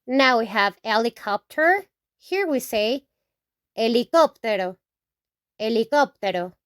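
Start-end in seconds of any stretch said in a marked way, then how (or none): 3.8-6.5 "helicóptero" with silent h, stressed KOP; Spanish pronunciation. Shown as a demonstration. Teacher modelling Spanish for helicopter, stress on the ó of "helicóptero". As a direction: say "helicóptero" as eh-lee-KOP-teh-ro. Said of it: "we put an accent".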